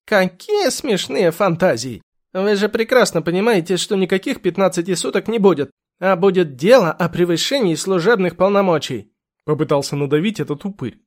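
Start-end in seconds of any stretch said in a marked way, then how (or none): 0.1-9.1 smug lawyer. Acted. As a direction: sneer at her fantasies. Lawyer mocks and pressures.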